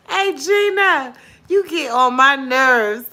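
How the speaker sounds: high, slow, drawn-out teasing call; playful call-out. Real, not acted. Host teasing a viewer in the chat, slow and playful. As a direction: stretch it out like a friendly jab.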